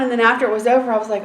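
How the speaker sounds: normal talking voice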